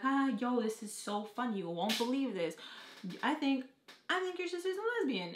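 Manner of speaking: high, loud amused teasing; mock the big reveal, cracking up; imitating a guy laughing at a joke; laughing excited retell.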